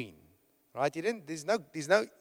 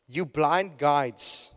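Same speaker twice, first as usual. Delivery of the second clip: slow, louder, denouncing blind guides; stern rebuke; 5 dB louder, much slower than usual. Retold or imitated. Jesus rebuking the Pharisees, slow loud denunciation. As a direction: preach the rebuke slow and heavy.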